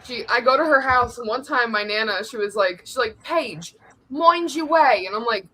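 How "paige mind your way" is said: imitating Nana's thick accent; mock grandmother's accent; Nana's hard-to-understand accent. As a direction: do your Nana, hard to understand. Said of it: "you can't understand her".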